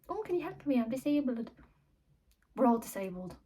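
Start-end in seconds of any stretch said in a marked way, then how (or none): 0.1-1.5 lightly mocking plea, lifted at the start; mock pleading. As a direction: mimic a needy stranger asking for help. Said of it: "he was disabled".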